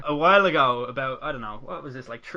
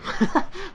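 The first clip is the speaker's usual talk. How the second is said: high giggle. Real, not acted. Laughing at own joke.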